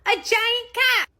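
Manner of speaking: put-on high, loud, stretched kid exclamation; excited five-year-old. Five-year-old echoes dad at the statue, gleeful kid shout. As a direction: shout it with innocent glee. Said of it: "And my five-year-old goes".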